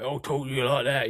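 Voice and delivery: lightly put-on East End London accent; a quick touch of broad London Cockney. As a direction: imitate a full-on Cockney speaker. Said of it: "He's Cockney ... So he's full on".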